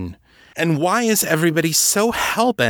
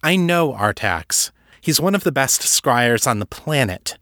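higher-pitched, building disbelief; incredulous challenge; 5 semitones higher than usual. Acted. Kate challenging Levinson on what Artax gets, incredulous. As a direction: argue the point, pitch climbing with incredulity. Kate argues she doesn't believe him.

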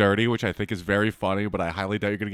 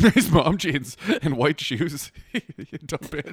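escalating comedy rant; 3 semitones higher, much slower than usual. Real, not acted. Mocking her photo, laughing.

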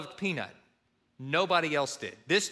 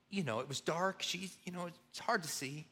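much softer, trailing mumble; mumbled evasion; 10 dB quieter than usual. Retold or imitated. Son mumbling to dad about the dark driveway, softly evasive. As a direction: barely get the words out, hoping he won't hear.

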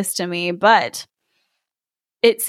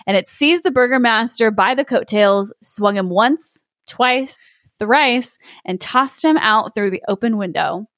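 story narration. A narrator's reading. S0 reads fairy tale aloud.

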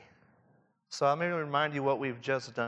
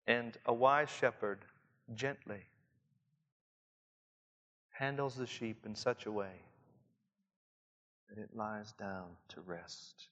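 ordinary delivery

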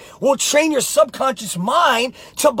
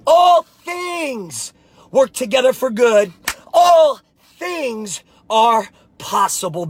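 slow, shouted, each word stressed; slow, shouted affirmation; slow emphatic declaration; slower than usual. Real, not acted. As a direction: drive the words home. Closing affirmation to viewers.

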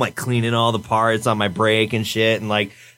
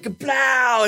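hammed-up kablow; explosion sound effect; 10 semitones higher than usual. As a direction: shout it like a cartoon explosion.

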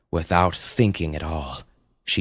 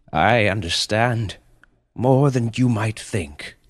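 slow, measured, grave creature voice; solemn panda; 4 semitones higher, slower than usual. Acted. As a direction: speak as a wise beast, very deliberately. Panda answers the mother solemnly.

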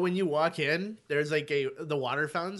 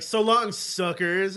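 raised, cocky send-off; mock gloating farewell; 4 semitones higher, 3 dB louder, slower than usual. Man acting out his escape by bike cab, mock gloating. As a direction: call it out like a triumphant getaway.

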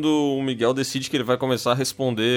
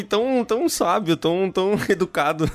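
laughing, ironic praise; 7 semitones higher than usual. Real, not acted. Laughing about friend's reply.

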